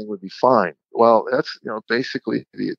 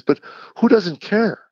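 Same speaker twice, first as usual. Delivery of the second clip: high, slow, incredulous question; wife's baffled protest, re-enacted; retold incredulity; 10 semitones higher than usual. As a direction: draw it out in mock disbelief. Wife's incredulous reply, retold quarrel.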